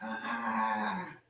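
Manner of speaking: understated acted scream of pain; a held-back storyteller's "ah" of pain; mild, low mock cry. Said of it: "Seagull screamed".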